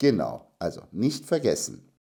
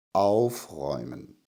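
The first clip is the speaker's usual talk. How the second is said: aufräumen with stress on the prefix auf; 8 semitones lower than usual. Explaining separable verbs: stress on 'auf' in aufräumen. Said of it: "die Vorsilbe ist betont. Wir sagen also aufräumen".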